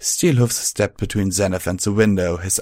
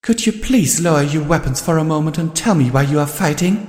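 higher ringing polite call; magically amplified voice; 8 semitones higher, 4 dB louder than usual. A narrator's reading. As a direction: project politely across the field. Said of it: "magically amplified voice rang out".

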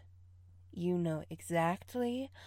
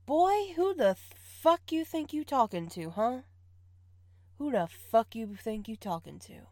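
indignant scold; 3 semitones higher than usual. Acted.

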